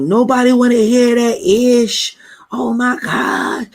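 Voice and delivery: high, loud outburst of a suddenly hostile woman; furious coworker. Retold or imitated. Imitating the coworker who snapped at him, high and loud. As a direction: shriek it like a kind coworker turned tyrant. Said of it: "she went off".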